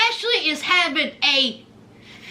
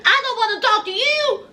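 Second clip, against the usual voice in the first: mock crying; 3 semitones higher, faster than usual. Quoting Ashley, crying heard.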